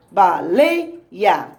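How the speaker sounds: "Baleia" split up, LEI called out loud; ba-LEI-a, punching LEI almost in a shout; loud stressed syllable. Shown as a demonstration. Teacher finding the tonic syllable of "Baleia", LEI said very loud. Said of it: "vamos falar baleia bem alto".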